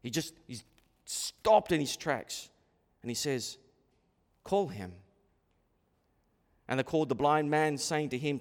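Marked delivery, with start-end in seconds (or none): 4.4-4.9 low, soft instruction; hushed, lowered order; quiet command. Retold or imitated. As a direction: say it low and softly, with calm authority. Jesus quietly stops and speaks.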